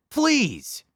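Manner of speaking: high desperate please. Retold or imitated. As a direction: beg with relief. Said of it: "D M".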